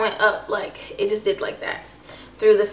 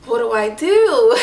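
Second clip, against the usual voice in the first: slow, louder question breaking into laughter; helpless question tipping into a laugh; retold dismay, half laughing; 5 dB louder, slower than usual. Recalls her shocked question, then laughs.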